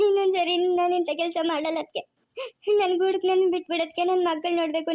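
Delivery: crying apology to the sister-in-law; tearful plea. Acted. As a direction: sob on the promise. Begging sister-in-law for forgiveness.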